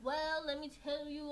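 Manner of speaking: mock his southern accent back at him. Talking back to the church lecturer, mocking southern accent. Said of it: "I always used to mock him back".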